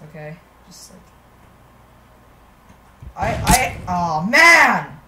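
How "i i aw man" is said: disappointed sigh. Real, not acted. Failed the level again.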